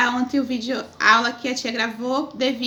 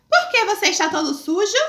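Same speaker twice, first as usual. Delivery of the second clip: questioning mother; 5 semitones higher than usual. Acted. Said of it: "a primeira coisa que a mãe pergunta".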